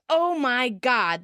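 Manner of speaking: slow, drawn-out exclamation; mild mock shout. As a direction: retell a shocked shout without full volume. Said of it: "Ross shouts".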